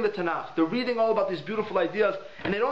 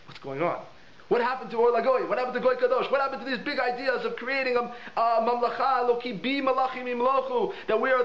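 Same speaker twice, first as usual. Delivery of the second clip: bewildered outcry; 5 semitones higher than usual. Retold or imitated. Alien bewildered by tiny halachic questions.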